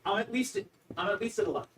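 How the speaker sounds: out of breath from squatting; straining through squats. Real, not acted. Player counting squats mid-exercise, real exertion.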